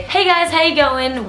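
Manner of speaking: австралийское приветствие; Aussie greeting. Retold or imitated. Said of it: "which I am going to automatically say".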